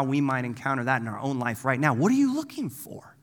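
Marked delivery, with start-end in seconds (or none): 1.9-3.1 high, whispery asking; hushed question. Acted. Preacher putting Jesus' question to our own life, hushed question.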